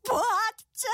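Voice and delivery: half-hearted sob, slowing down; mock crying. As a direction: pretend to weep over the tale. Child mock-upset by sad story. (předstíraný pláč)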